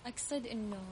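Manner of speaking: faint and distant, off mic; far from mic. Real, not acted. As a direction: talk from far away. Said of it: "على المايك بعد إذنك".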